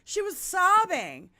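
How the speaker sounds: can't hold back the laugh while telling it; real laughter breaking into the story. Real, not acted. Laughs while retelling friend's story.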